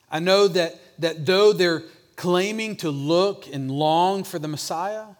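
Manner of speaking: impassioned challenge. Acted. Voicing Jesus' challenge about the Pharisees.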